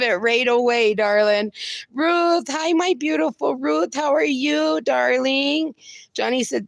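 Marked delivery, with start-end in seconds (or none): 1.9-5.7 high, sing-song welcome; gushing greeting. Real, not acted. Host warmly gushing hello to viewer Ruth, pitched high.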